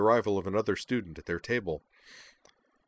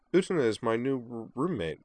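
mild stutter; 4 semitones higher than usual. Acted. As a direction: trip only on first sounds. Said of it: "Kate's stutter".

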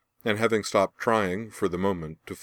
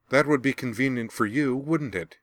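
bitter, higher snarl; 6 semitones higher than usual. A narrator's reading. Azula snarling at Laura over her wound. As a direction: spit it out with bitter suspicion. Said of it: "Azula snarled".

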